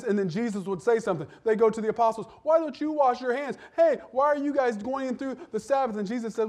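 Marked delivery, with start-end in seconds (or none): 2.4-6.0 higher-pitched mock indignant questioning; accusing challenge. Pharisees confronting the apostles over the Sabbath, accusing. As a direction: put on a nagging objector's voice.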